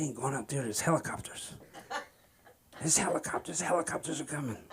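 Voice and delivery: mock-fearful, softened voice; hushed paranoia. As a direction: keep it down, as if being hunted. Paranoid, hearing whispers, hiding.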